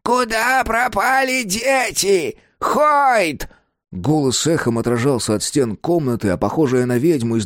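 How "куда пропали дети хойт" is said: put-on very slow, high, raging old woman; old woman accusing a guest, furious cracking cry; furious cracking yell. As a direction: scream it at him, voice breaking. Miss Mary keeps raving.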